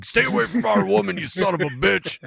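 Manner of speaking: high, angry redneck Bigfoot holler; mock-furious redneck shout; redneck accent. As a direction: yell it like a riled-up redneck. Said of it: "Bigfoot's got a redneck ac-, accent".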